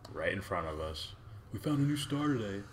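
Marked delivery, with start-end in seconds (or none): 1.5-2.6 eager announcement. Acted. Acted announcement to the universe.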